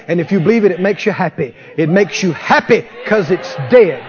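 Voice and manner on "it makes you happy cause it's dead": shouting. Real, not acted. Preacher shouting over dead growth.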